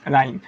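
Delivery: राइम said "raim", starting from r; silent h in राइम. Shown as a demonstration. Teacher modelling राइम, h left silent. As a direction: say राइम straight from r, no h. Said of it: "इस आर से पढ़ना हमने शुरू किया".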